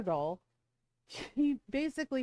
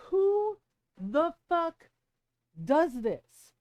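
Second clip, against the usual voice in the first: high, loud, drawn-out outrage; outraged yell; 7 semitones higher, 6 dB louder, much slower than usual. Retold or imitated. Retelling her outrage at daughter's partner, high and loud. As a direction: yell it in disbelief. Repeats outraged quote, louder.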